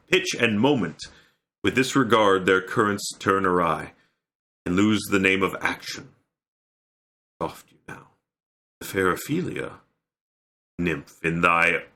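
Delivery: measured verse delivery, easing off toward the close; lightly theatrical Shakespeare reading; Hamlet soliloquy recitation. Acted. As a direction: wind the monologue down with thoughtful pauses.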